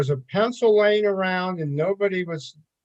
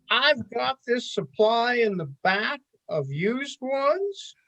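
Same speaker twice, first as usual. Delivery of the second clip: put-on rural Kansas accent; 4 semitones higher than usual. Lead forecaster offers a used cigar box, rural Kansas accent. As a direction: imitate a folksy rural Kansas colleague. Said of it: "his, his rural Kansas accent".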